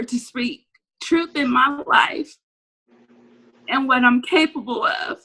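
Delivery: real choked-up emotion, halting with pauses; tearful but earnest encouragement; close to tears. Real, not acted. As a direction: speak through rising tears, pushing on. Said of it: "I'm about to cry".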